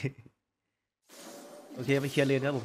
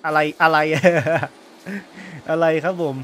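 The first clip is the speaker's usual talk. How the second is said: loud outburst; 3 semitones higher, 9 dB louder than usual. Real, not acted. Gamer yells at the game despite a sore throat, loud and laughing. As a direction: yell in disbelief, then laugh. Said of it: "ออกเสียงมากไม่ได้เจ็บคอ".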